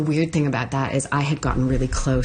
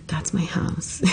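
whisper; 3 semitones higher, 4 dB quieter, slower than usual. Retold or imitated. Whispering pointing out her home.

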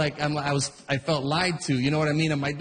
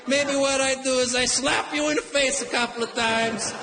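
a hot-headed Italian father threatening the line-cutter; Italian dad; 3 semitones higher than usual. Retold or imitated. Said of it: "My Italian dad right away".

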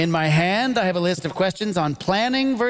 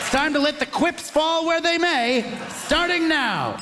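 excited announcer; 6 semitones higher than usual. Real, not acted. Host kicking off the round.

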